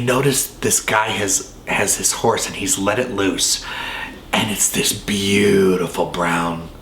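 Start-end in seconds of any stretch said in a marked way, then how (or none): 4.3-6.7 breathy awed whisper on the word. Real, not acted. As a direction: drop to a hushed whisper. Awed description of the beautiful horse.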